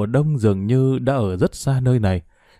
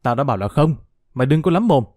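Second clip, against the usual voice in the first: angry shout; 2 semitones higher, faster than usual. Acted. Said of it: "tức giận hét lên".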